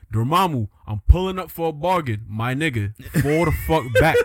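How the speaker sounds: lightly acted hood Doctor Strange. Doctor Strange confronting Dormammu, playful hood voice. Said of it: "let's give them hood voices".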